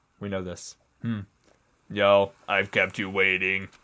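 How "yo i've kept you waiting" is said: put-on flat monotone robot voice. Voicing a character who might be a robot, in a robot voice. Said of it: "I gotta do a robot voice".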